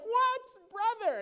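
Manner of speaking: overjoyed to meet a fellow believer; excited. Retold or imitated. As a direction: ecstatic surprise, stretched out. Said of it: "they get excited".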